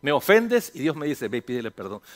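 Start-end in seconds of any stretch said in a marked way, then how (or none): 1.3-2.0 God's voice. Acted. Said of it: "Tú sabes cómo habla Dios".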